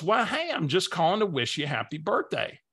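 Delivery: Barbara's voice. Retold or imitated. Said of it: "I gotta use her voice".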